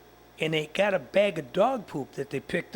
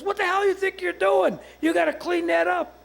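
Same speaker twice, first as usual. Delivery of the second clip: much higher, outraged mock shout; retold yelling; 9 semitones higher than usual. Homeowner confronting the man who dumped on his lawn, mock yelling. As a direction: act out an angry homeowner yelling. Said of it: "the guy come out yelling".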